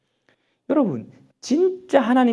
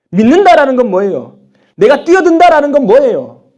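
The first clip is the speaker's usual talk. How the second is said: loud, high, frustrated questioning; exasperated protest; 7 semitones higher, 11 dB louder than usual. Acted. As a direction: demand answers in sheer bafflement. Acting exasperated, confused believer's protest. (답답해서 따지듯 크게)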